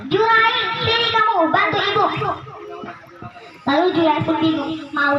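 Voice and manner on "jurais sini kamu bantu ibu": mother calling again. Acted. Mother calling Jurais the second time, raised call. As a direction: call him a second time, more urgently.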